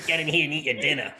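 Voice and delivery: put-on Boston mom calling kids in; hammy Boston accent. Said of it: "Boston accent".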